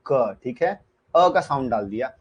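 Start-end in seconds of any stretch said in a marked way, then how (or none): 0.1-0.4 letters drawn out very slowly; slow, deliberate letter-by-letter; slow spelling-out. Shown as a demonstration. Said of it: "लक कैसे लिखना है?".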